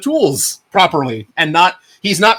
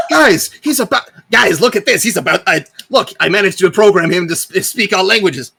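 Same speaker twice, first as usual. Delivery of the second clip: excited laughing; 4 semitones higher, 3 dB louder than usual. Acted. Gizmo proudly shows off Bolt.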